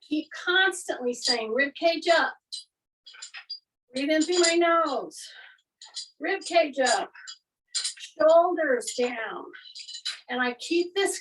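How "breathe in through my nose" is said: breathy whispered cue. Shown as a demonstration. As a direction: breathe the words out unvoiced. Coach cueing a breath.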